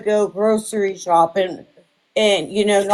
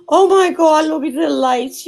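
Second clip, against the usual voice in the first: excited; 5 semitones higher, 4 dB louder than usual. Real, not acted. Overwhelmed by the gifts.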